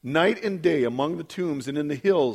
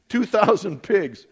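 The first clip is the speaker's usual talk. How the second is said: "Two thousand pigs" slow, raised and louder; amazed emphasis; 4 semitones higher, 5 dB louder, slower than usual. Real, not acted. Preacher marvelling at the herd, "Two thousand pigs" slowly emphasised. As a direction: stretch out "Two thousand pigs" to stress the huge number.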